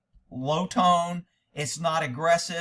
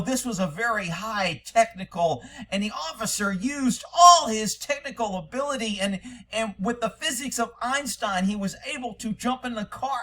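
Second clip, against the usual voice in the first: mildly hammed-up technical explanation, pitched higher; mock grand justification; 4 semitones higher than usual. Mocking the official who justifies the officer, sarcastically grand. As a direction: inflate a simple act into a great feat. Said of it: "trying to make it some massive, secretive".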